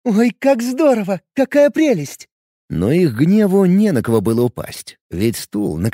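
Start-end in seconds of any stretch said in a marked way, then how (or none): 0.1-2.3 high, gushing delight. Acted. A cheerful girl applauds the hero's trick, delighted. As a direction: squeal with joy as she claps. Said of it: "Джуди захлопала в ладони".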